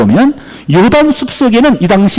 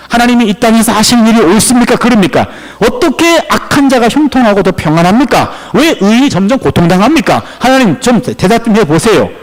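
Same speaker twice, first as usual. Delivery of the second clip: lively acted protest; arguing with God; 3 semitones higher than usual. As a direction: challenge God question after question, demanding an answer. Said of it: "옳고 그름을 따졌어요".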